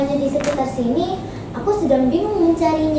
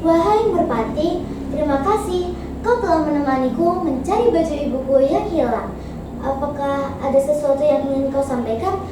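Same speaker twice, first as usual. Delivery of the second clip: gentle. Acted. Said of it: "tanya Bawang Putih dengan lembut".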